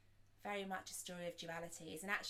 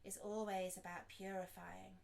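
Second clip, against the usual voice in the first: unhurried reflective guidance, long silences between thoughts; guided meditation; 3 dB quieter than usual. Acted. Teacher guides listeners to reflect on intentions, guided meditation. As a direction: pose each thought gently and leave room after it.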